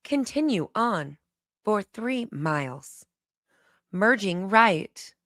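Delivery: slow, even sat-nav announcer; GPS voice. Pretend. Streamer showing chat her GPS impression, slow and robotic. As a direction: read it like a calm navigation app, measured and slow. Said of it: "the Siri voice".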